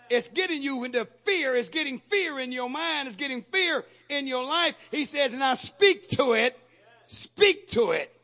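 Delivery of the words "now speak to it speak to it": slow, loud command "speak to it". Acted. Preacher voicing Jesus, slow loud command. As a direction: order it firmly and slowly.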